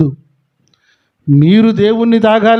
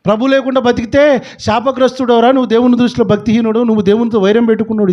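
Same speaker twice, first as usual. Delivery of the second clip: higher, faster stern warning to a son; stern parent warning; 4 semitones higher than usual. Retold or imitated. Preacher voicing a parent warning his son, stern and fast. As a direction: rattle off the warning like a worried father.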